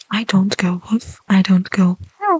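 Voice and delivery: soft unvoiced ASMR whisper. Real, not acted. Whispering to viewers while drawing a dog, soft whisper. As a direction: breathe the words gently.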